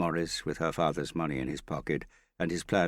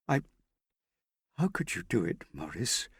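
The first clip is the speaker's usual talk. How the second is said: miserable; 5 semitones higher than usual. A narrator's reading. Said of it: "she said miserably".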